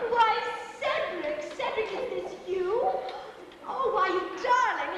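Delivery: gushing surprise, first word drawn out; delighted surprise. Acted. Actress takes a surprise call from Cedric, delighted. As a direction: greet a darling with amazed delight.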